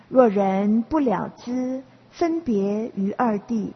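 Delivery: slow, measured chanting of the verse; verse recitation. Acted. Teacher slowly recites the sutra verse for students. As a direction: intone each line slowly like scripture.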